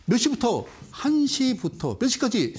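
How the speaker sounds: ordinary talk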